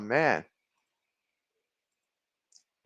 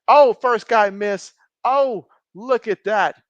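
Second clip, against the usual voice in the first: slow, drawn-out louder exclamation; excited reaction; 3 semitones higher, 6 dB louder, slower than usual. Real, not acted. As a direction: react to a big play. Reacting to live play.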